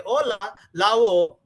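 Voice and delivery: "Ola", then its syllables swapped into "Lao"; syllables reversed. Shown as a demonstration. Teacher showing a wrong syllable order, "Ola" flipped to "Lao". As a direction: say "Ola", then "Lao" with a firm, stretched sound. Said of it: "Syllable sequence is also very".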